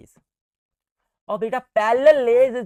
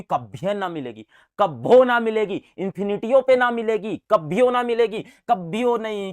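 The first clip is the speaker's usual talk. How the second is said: dramatic never; 5 dB louder than usual. Acted.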